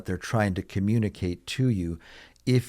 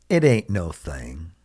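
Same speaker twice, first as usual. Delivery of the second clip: lightly voiced southern US accent, lower pitch; a hint of southern US accent, pitched down; slight southern US accent; 4 semitones lower than usual. Shown as a demonstration. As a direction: put on a little Southern twang. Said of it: "used a little bit of an accent".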